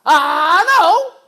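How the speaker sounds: high, loud whining plea; dad whining for a goodbye kiss from daughter; playful dad to daughter. Retold or imitated. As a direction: coax a kiss like a needy dad. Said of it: "eu já falo".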